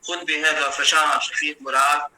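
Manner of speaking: steady, metrical mushaira delivery; Urdu poetry recitation. Acted. Poet honouring the academy's head at an online mushaira, measured poetry recitation. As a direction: recite the verse in measured phrases, resting on the refrain.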